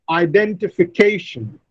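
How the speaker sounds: "identification" said i-den-ti-fi-CA-tion; stress on fifth syllable. Shown as a demonstration. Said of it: "The fifth syllable receives the primary stress".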